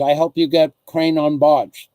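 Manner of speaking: light imitation of a Chinese accent, dropped articles; a hint of Chinese-accented broken English. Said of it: "Chinese guy".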